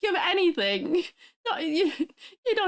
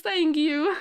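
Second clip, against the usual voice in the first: crying thanks; 2 semitones lower than usual. Real, not acted. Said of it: "I start crying".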